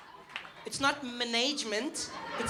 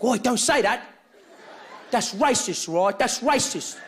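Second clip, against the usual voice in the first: loud, laughing reprimand in a local voice; scolding local man; 2 semitones lower, 3 dB louder than usual. Retold or imitated. A local man lecturing Trevor about the word, in a loud amused scold. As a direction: tell him off, half amused.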